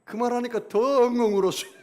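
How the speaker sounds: loud, high, laughing retelling; laughing while telling. Real, not acted. Pastor laughing as he recalls sobbing harder. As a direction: laugh through the memory of crying.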